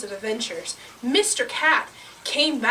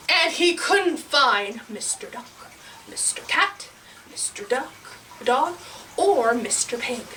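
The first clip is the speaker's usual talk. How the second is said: measured narration with long pauses; suspenseful storytelling. A narrator's reading. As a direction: search around phrase by phrase.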